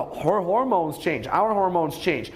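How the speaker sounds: normal talking voice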